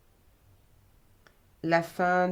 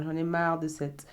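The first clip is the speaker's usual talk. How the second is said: desperate plea. Retold or imitated. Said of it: "crier à l'aide en disant".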